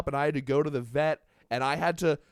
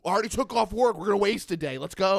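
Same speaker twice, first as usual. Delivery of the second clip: raised-pitch reenacted scolding; yelling at cat; 5 semitones higher, 4 dB louder than usual. Man retells reasoning with cat, exasperated yelling. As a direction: hurry them along, exasperated. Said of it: "Me yelling at the cat".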